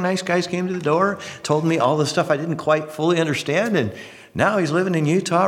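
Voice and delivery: breezy retelling of a cult convert's story; former Baptist. Retold or imitated. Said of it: "I've known several folks like that".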